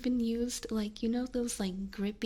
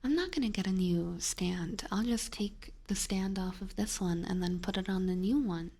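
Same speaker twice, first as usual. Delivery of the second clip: whispering. Acted. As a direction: whisper it close and gentle. Whispered retelling.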